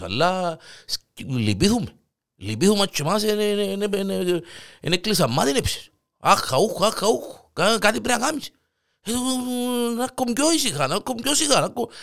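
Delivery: very high, whining plea; desperate pleading neighbour. Acted. Panagiotis begs again, higher. (απελπισμένη, τσιριχτή παράκληση)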